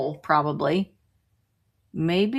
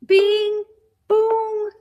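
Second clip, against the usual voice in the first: high, excited bing boom; excited announcer; 13 semitones higher, 3 dB louder, much slower than usual. Real, not acted. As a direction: sing out the win. Announcing the auction winner.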